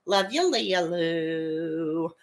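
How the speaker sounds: slow, stretched pet name; lingering, affectionate shout-out; fond drawn-out greeting. Real, not acted. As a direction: let the nickname trail out long. Fond shout-out to favorite lurker.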